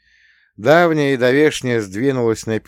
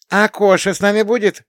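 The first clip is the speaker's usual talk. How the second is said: put-on worried child; 13 semitones higher, 7 dB louder than usual. A narrator's reading. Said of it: "тревожно спросила младшенькая".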